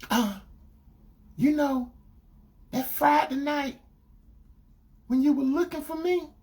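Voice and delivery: put-on scared girlfriend. Girlfriend confessing about the frat party, imitated nervously. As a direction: imitate her nervously stalling through a confession. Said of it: "she got scared".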